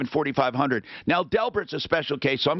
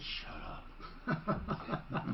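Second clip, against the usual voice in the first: laughing quote; 5 semitones higher, 15 dB quieter than usual. Retold or imitated. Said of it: "And Stephanie says".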